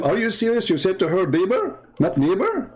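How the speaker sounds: mock the husband as the crowd; crowd disbelief. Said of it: "they start saying to him".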